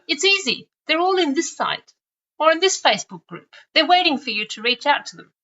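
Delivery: lightly acted, high and carefree tip; pretend easy advice. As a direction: play someone selling a too-easy answer. Imagined easy advice to someone.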